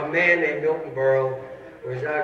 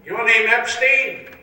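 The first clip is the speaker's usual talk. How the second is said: slow questioning; 8 semitones higher, 8 dB louder, much slower than usual. Acted. Guy questions man in hall.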